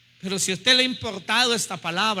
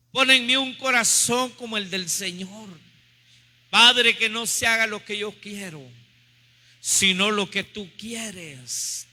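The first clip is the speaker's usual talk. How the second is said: fervent prayer. Real, not acted. Preacher submitting to the Father's will, earnest prayer. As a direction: pray it, easing into surrender.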